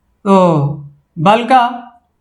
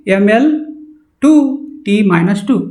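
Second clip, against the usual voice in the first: drilling slowly. Shown as a demonstration. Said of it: "इसको क्या पढ़- हम लोग पढ़ेंगे".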